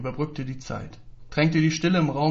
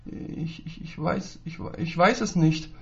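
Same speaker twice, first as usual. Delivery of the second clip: furchtsam stotternd; 3 semitones higher, slower than usual. Acted. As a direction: stutter it out in fear. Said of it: "gab der Junge furchtsam stotternd zurück". (der Junge stottert ängstlich vor dem Lehrer)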